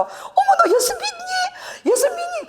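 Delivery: very high, stretched-out mock squeal; imitating delighted friend. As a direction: squeal in overjoyed disbelief, imitating an old friend. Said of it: "그 친구가 막 웃으면서 욕을 들어도 그렇게 좋아하더라고".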